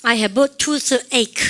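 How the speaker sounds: slow, loud model sentence; teacher drilling slowly; slow model phrase. Shown as a demonstration. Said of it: "시작".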